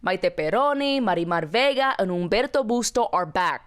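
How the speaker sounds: upbeat co-host sponsor plug; lively promo read; scripted podcast ad read. Acted. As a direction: sell the show with polished enthusiasm. Sponsor ad read by both hosts.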